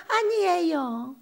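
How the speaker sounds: slow, drawn-out modest "아니에요"; coy denial. Retold or imitated. Imitating someone brushing off praise, slow and coy. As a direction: stretch 아니에요 out bashfully. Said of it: "이렇게 말한다니까".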